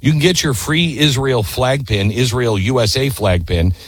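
brisk sponsor read, then slowing on the web address; upbeat host reading a sponsor spot. Acted. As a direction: sell it like a radio ad.

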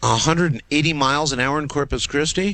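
real startled disbelief; incredulous. Real, not acted. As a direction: repeat it back in disbelief. Host hears startling wind report.

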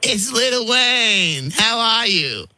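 put-on slow, drawn-out teen suitor act; lightly played boyfriend with stretched-out words; pretend boyfriend. Prankster posing as girl's boyfriend on the phone, slow boyfriend act. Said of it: "I'd pretend to be Kira's boyfriend".

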